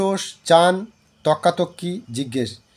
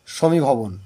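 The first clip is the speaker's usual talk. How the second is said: slow dictation; 5 semitones lower, slower than usual. Shown as a demonstration. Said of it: "এই তর্কাতর্কি হচ্ছে গিয়ে".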